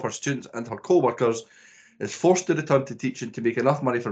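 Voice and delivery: lightly put-on presenter reading a synopsis; a touch of posh podcast host; posh presenting voice. Host sums up Bad Teacher for listeners, presenting voice. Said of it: "posh Kyle in a second".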